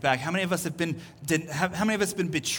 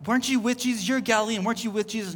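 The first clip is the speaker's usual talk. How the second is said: raised-pitch, pressing questions; acted accuser; 4 semitones higher, faster than usual. Third bystander accusing Peter, high and pressing. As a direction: fire off the accusation in a higher voice. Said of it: "And then a third one".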